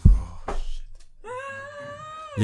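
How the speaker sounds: very high, strained cry of dismay; shocked cry. Retold or imitated. Son hearing of his sick aunt in Ghana, crying out high in shock. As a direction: yelp it out. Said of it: "Ich so".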